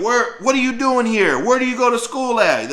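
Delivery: high, loud interrogating bark; men cornering a teen in the bathroom, hostile; grilling. Retold or imitated. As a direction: demand answers from the intruder. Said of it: "they just grilling me".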